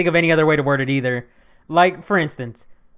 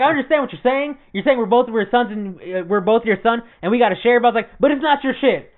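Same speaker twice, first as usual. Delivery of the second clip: mild retold argument; 5 semitones higher than usual. Arguing with mom, retold.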